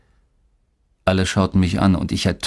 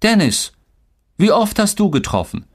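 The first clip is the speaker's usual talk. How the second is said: high, coaxing mother's voice; high-pitched motherly prompt; mother asking; 12 semitones higher than usual. A narrator's reading. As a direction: ask your son brightly, pitched well up. Mother asks her son.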